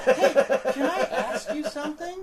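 a wife sweetly setting a trap, with a laugh; ominous sweet wife. Retold or imitated. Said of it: "she's like".

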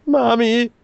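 put-on scared little kid. Guy's face says "Mommy.

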